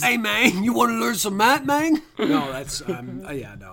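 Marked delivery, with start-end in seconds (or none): 0.0-2.0 high, loud hammed-up Latino accent; mock Latino accent. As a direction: play the cool math teacher. Olmos impression continued, math teacher.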